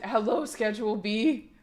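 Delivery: put-on softly trying out the kid's line; tentative kid imitation. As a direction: test the imitation quietly, half-voiced. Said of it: "what is it?".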